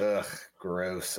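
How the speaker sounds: disgusted groan of gross; grossed-out ugh; annoyed ugh. Real, not acted. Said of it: "Fox has no nuts".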